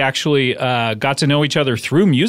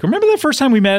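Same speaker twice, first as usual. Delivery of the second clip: retold question; 10 semitones higher, faster than usual. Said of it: "I was like".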